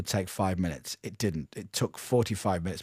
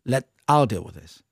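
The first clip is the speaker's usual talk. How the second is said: quiet, calm and firm; a retold calm telling-off, softer; 2 semitones lower, 3 dB quieter than usual. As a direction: settle them down calmly, softly. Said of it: "I just calmly went".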